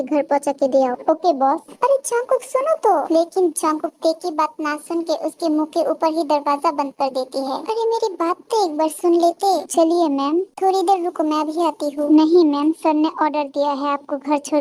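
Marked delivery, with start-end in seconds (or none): 1.8-3.1 calling after him. Acted. Tae calls after leaving Jungkook. 12.1-12.7 louder, blocking her; firm loud no. Acted. Bodyguard firmly stops her.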